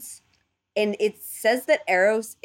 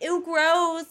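disgusted; 10 semitones higher than usual. Retold or imitated. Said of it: "gods and goddesses are like".

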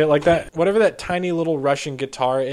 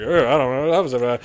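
dumb internet guy voice; faster than usual. Retold or imitated. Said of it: "dumb internet guy voice".

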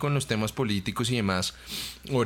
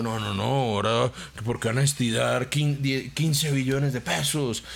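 mocking Petro supporters. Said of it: "amigos de Petro que estaban diciendo".

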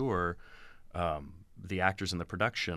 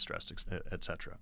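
ordinary talk

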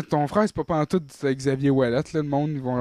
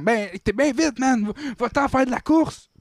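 police officer voice; 10 semitones higher than usual. Retold or imitated.

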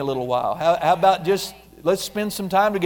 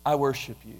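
worshipful prayer. Shown as a demonstration. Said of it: "just come and say".

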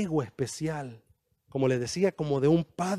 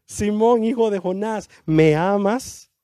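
Jesus calling Simon louder, the last words slowed; a raised, pleading call; urgent call; 3 semitones higher, 6 dB louder, slower than usual. Acted. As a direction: call out to him, pressing the question. Jesus calls Simon a third time.

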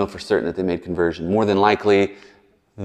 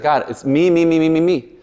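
high, mocking me-me-me; preacher mocking Jonah's self-centred prayer, pitched up; mock self-centred whine; 6 semitones higher than usual. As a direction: parody his self-absorption, rising higher. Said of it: "he's like".

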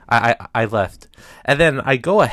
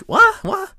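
stunned disbelief; 4 dB louder than usual. Retold or imitated. Disbelief at being thrown out.

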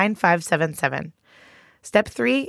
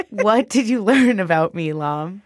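laughing. Real, not acted. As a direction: laugh through the question. Host laughs asking.

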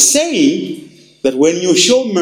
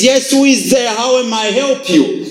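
voice of Jesus; 7 semitones higher than usual. Acted. Jesus voiced at heaven's door.

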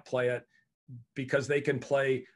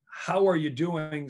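slow, deliberate check-in; sincere question; 2 semitones higher, 3 dB louder, slower than usual. Shown as a demonstration. Coach stopping to observe a teammate, sincere and measured. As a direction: ask slowly and leave room for an answer. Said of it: "Stop pausing and observing".

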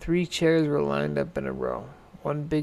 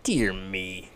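Mama Bear; 7 semitones lower than usual. A narrator's reading. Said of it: "said Mama Bear".

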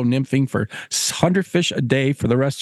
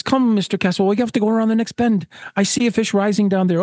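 higher-pitched, urging call; eager gillie; 6 semitones higher, faster than usual. Acted. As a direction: urge the angler on to the next fish. Gillie urging angler onward.

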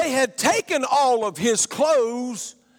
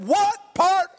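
drill sergeant; slower than usual. Retold or imitated. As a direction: yell it like a boot camp sergeant at a recruit. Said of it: "the drill sergeant said".

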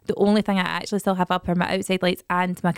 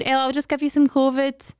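put-on child voice; 6 semitones higher than usual. Charlie quoted.

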